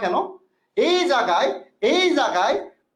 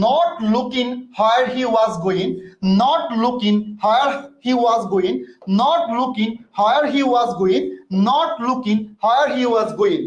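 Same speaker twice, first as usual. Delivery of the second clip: slow drilled phrase; much slower than usual. Shown as a demonstration. Teacher drilling an English phrase.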